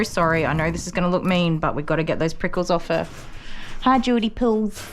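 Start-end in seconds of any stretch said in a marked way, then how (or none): 3.8-4.8 higher, affectionate hello to a dog; pet-greeting voice. Real, not acted. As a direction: greet the dog sweetly, pitched up.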